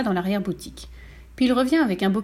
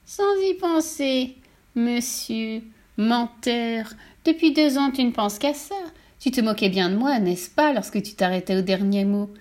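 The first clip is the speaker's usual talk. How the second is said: lightly voiced witch. Witch taunting the teller for his song. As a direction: sneer like a patient mean witch.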